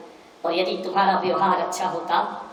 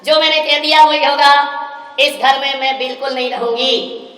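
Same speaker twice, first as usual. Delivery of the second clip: stubborn outburst; 3 semitones higher, 5 dB louder than usual. Retold or imitated. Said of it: "बोले".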